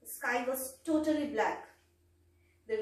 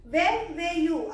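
anxious call; 4 semitones higher, 7 dB louder than usual. A narrator's reading. Wife calls to rescued husband.

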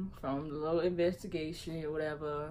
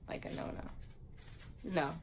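hushed inner no; 8 dB quieter, much slower than usual. Retold or imitated. Her inner refusal, acted out.

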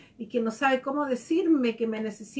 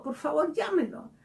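higher pitched, eager and glad; happy boy; 5 semitones higher than usual. Retold or imitated. Student cheerfully asking the teacher to call his father. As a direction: beg it gleefully like a kid. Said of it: "él feliz me dijo".

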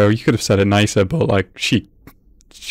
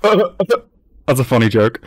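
slow, laughing through every word; amused laugh-talk; much slower than usual. Real, not acted. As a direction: chuckle it out slowly.

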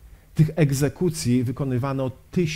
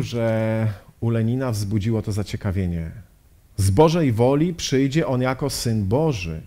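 usual speaking voice

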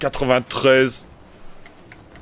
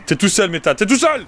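calling out; 5 semitones higher than usual. Real, not acted. Calling a teammate in game.

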